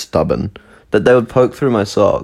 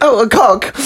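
silly exclamation; slower than usual. Pretend. Mock high exclamation, laughing.

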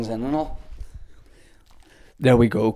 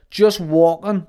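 calling out; 7 semitones higher, 6 dB louder, slower than usual. Retold or imitated. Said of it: "the guy was like".

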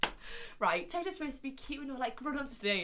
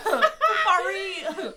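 put-on South African accent; 8 semitones higher, 8 dB louder, much slower than usual. Joins the accented shout.

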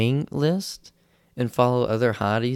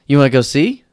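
friend's dare; 4 semitones higher, 10 dB louder, faster than usual. Retold or imitated. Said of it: "My friend goes".

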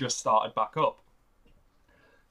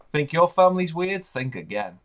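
announcer intro; 3 semitones higher, 6 dB louder than usual. Acted. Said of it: "a new intro that I've got done".

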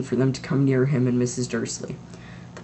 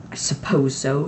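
stiffly. Acted. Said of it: "said Missus Dursley stiffly".

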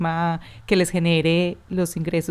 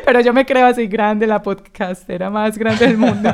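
louder, laughing boast in jest; laughing self-mockery; 4 dB louder than usual. Host jokingly boasting to her guest, laughing and louder. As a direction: puff yourself up while laughing at it. Host mocks herself as grand.

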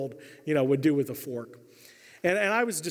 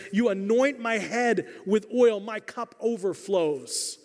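slow, raised solemn recitation with falling ends; scripture reading; 4 semitones higher, slower than usual. Acted. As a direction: proclaim "You anoint my head with oil" slowly and reverently. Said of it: "reading Psalm twenty-three aloud".

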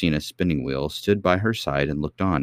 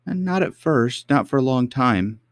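cartoon princess; 8 semitones higher than usual. A narrator's reading. Princess answers old lady.

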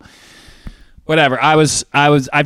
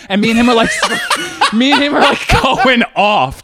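high, loud, helpless laughter; laughing while talking; 10 semitones higher, 4 dB louder than usual. Real, not acted. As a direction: laugh through the words, pitched way up. Laughs while telling of the quarrel.

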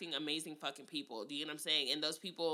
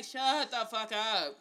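blunt retort; much slower than usual. Retold or imitated. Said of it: "And I'm just like".

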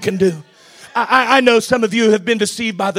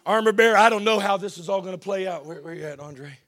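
much softer, away from the mic; muttered aside to the band; 4 semitones lower, 8 dB quieter than usual. Real, not acted.

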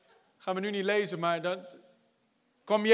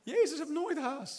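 slow, calm emphasis; 6 semitones higher, 5 dB quieter, slower than usual. Acted. Slow point about Jesus' calm.

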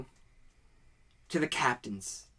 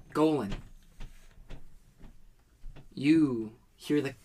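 dramatic scene setting. Acted. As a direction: draw the players into a vision. GM sets the scene.

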